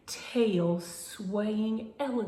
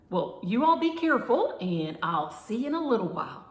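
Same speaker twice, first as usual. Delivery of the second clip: loud, high, fast call after them; 6 semitones higher, 7 dB louder, faster than usual. A narrator's reading. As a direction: call it out as they leave. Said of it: "Cheryl called".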